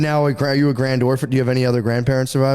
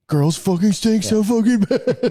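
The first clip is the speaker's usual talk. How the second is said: higher, slow, laughing through it; mock grandpa line broken by laughter; laughing quote; 7 semitones higher, much slower than usual. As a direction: stretch it out while cracking up. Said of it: "it was a similar thing of like".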